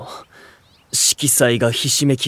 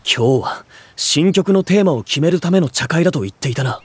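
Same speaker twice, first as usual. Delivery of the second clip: higher, raised reproach to his brother; indignant accusation; 6 semitones higher than usual. Acted. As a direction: demand an explanation, irritated. Confronting brother about tea party. (苛立って問い詰める)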